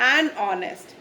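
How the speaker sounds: slow an honest, h silent, linked an-onest; an before vowel. Shown as a demonstration. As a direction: model an honest, slowly and distinctly. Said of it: "vowel के rule के according an use". (धीरे से an honest, एच के बिना)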